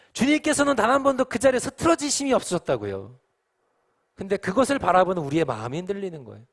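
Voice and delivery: high, loud, urgent sermon voice; impassioned preaching. Real, not acted. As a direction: press the point home at full force. Preaches at full force.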